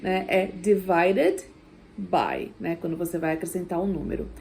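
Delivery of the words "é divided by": divided by, slow and clear; teaching divided by. Shown as a demonstration. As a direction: spell out divided by slowly. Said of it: "o dividido não é shared".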